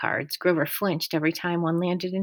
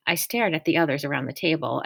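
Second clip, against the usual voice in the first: usual speaking voice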